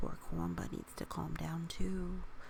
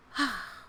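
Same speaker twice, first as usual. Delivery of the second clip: calming sigh; 3 semitones higher, 3 dB louder than usual. Real, not acted. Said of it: "Let's try and focus and calm down".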